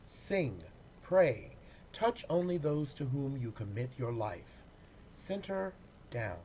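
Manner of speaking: gentle, earnest recital, often dropping soft; poetry reading. Acted. Actor reading a pandemic poem to the congregation, gentle recital. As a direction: offer each line as a quiet blessing.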